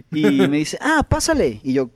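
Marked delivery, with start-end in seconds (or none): 0.8-1.6 promotor amable. Retold or imitated. Imita al promotor en la anécdota.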